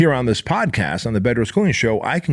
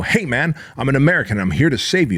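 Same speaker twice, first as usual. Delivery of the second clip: higher, urgent call to a panicking pilot; urgent, forceful; 4 semitones higher than usual. Retold or imitated. Rescuer yelling at a panicking pilot, forceful and higher. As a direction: snap him out of it with a forceful higher voice. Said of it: "give 'em a really strong shake and go".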